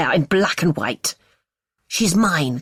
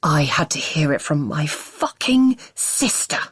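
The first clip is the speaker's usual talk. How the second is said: rising rage; 3 semitones higher than usual. Acted. Husband furious at hidden daughter, rising bitter rage. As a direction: spit out the betrayal.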